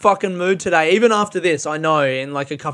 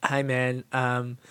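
softer, sweetly mocking fan; mock gushing nice fan; 6 dB quieter than usual. Imagined fan gushing about his stew, softly mocking. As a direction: parody an overly kind commenter, softer. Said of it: "it's all like".

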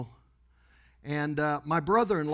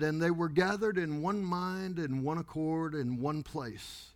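understated, softer scripture reading; quiet, solemn preacher; 5 dB quieter than usual. Retold or imitated. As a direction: quote the verse quietly and solemnly. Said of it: "he's very quiet and solemn".

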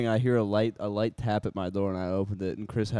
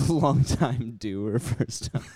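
slow deadpan; much slower than usual. Acted.

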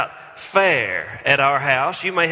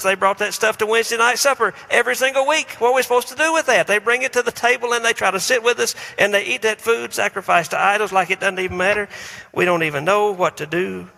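indignant congregant; 7 semitones higher, faster than usual. Retold or imitated. Voicing indignant Jewish church members.

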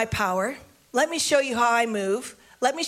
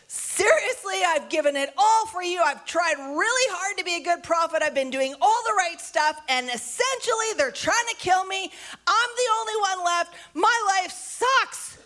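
whiny Elijah; 5 semitones higher than usual. Retold or imitated. Elijah complaining to God that his life sucks, high whine. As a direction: moan like a self-pitying prophet.

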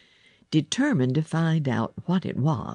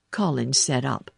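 ordinary delivery, nothing marked

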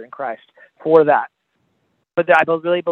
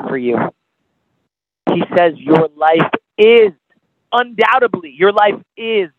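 rising and falling sermon delivery, pressing the listener; altar-call sermon voice; impassioned preaching. Acted. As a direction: preach it straight to the listener's heart.

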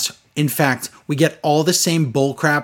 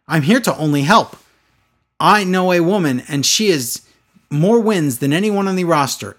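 lightly mocked stilted promo; imitating Lana; 2 semitones higher than usual. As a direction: recite it like badly learned lines. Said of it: "Humans don't talk like this".

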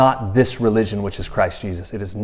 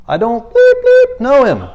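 higher, louder cursing denial; Peter cursing; 11 semitones higher, 7 dB louder than usual. Retold or imitated. Peter cursing at the servant girl who recognized him, angry shout. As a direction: blurt it out like a cornered fisherman swearing. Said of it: "he cussed at the girl".

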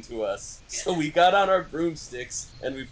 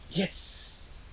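raised pitch without the volume; hissed start, half-hearted angry shout; hammy villain ordering them off; mock shout; 4 semitones higher, 6 dB quieter than usual. A narrator's reading. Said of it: "he shouted".

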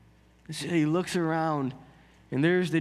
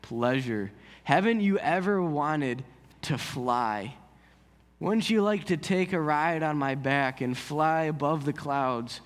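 purring dragon; 4 semitones lower than usual. Acted. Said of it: "like, a purring voice".

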